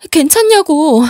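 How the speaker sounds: loud, high-pitched outburst of alarm; urgent demand. Acted. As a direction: demand an answer, voice jumping up. Wife frantic about injured daughter.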